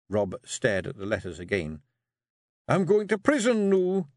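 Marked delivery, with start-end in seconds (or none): 2.7-4.1 high, louder Scots fretful question; worried Rob. Acted. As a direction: fear of the law. Rob's voice.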